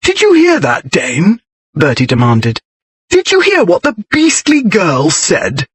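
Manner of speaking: high outraged demand; indignant. Acted. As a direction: appeal to his friend in disbelief. Bertie indignant to Dane.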